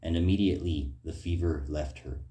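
steady, measured Bible reading from the pulpit; scripture reading. Acted. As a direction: read the gospel passage aloud to the congregation. Reads Mark chapter one aloud.

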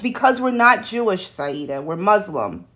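a hint of a patient, weary mother; lightly voiced tired mom, settling it; understated exasperated calm; calm but exasperated. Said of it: "in this calm but exasperated tone".

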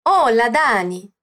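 Hola, Dani stretched out with an Italian-like lilt; slow "Hola, Dani", swooping down to a low end; singsong intonation. Shown as a demonstration. Teacher asking learners to try again, slow singsong intonation. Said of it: "um pouco dessa entonação italiana".

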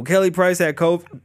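hiccuping between words; hiccups. Real, not acted. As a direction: talk through the hiccups. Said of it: "I'm gonna stop hiccuping".

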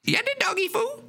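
put-on blackout drunk slurred words; high voice, words slurring. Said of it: "You're slurring your".

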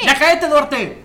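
loud, drawn-out demand; exasperated telling-off. Real, not acted. Co-host telling Duarte to shut up, exasperated. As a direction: tell him off, slowly and loudly.

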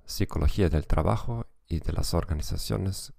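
Spanish with a German accent; German-accented Spanish, careful and measured. Real, not acted. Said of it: "con acento alemán".

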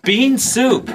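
stiff robotic TV voice. Acted. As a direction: talk like a robot. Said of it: "Why are you talking all funny?".

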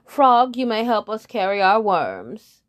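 mildly loud patronizing; lightly voiced lead bird. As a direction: offer a lowly job. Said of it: "said the lead bird".

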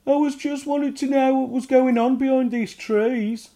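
high, loud little goblin voice; goblin excuse. A narrator's reading. Ugnok answering his mum, high goblin voice. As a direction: explain yourself sheepishly.

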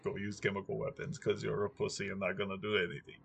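hammed-up Russian accent mocking Biden; bad Russian accent. Putin taunting Biden over chemical weapons, bad Russian accent. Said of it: "really horrible Russian accent".

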